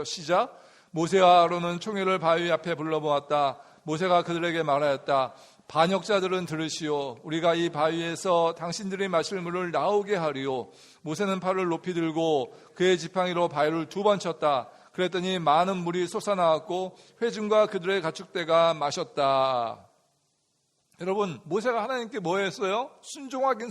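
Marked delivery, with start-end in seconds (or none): 0.9-7.2 scripture reading. Acted. 11.0-19.9 scripture reading. Acted.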